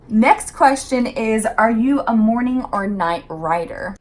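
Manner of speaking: talking between sips of tea; sipping hot tea. Real, not acted. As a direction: mouth wet from a slurp of tea. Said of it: "Sorry for the slurping".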